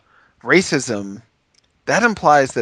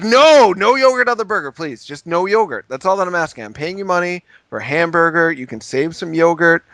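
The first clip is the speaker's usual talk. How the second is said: much higher, insistent raised voice; retold pleading yell; 6 semitones higher, 3 dB louder than usual. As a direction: keep pushing the cook to listen. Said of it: "I was, like, yelling at a man".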